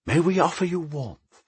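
high, lilting novice's welcome; high-pitched ceremonial welcome; friendly ritual greeting. A narrator's reading. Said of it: "came their friendly ritual greeting".

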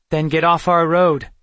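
forceful order, high and loud. Acted. Kendra orders Amulon off the road, commanding. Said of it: "Kendra ordered".

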